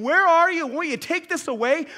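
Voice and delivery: crying out. Acted. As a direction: call out to an absent God. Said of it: "he's crying out to God".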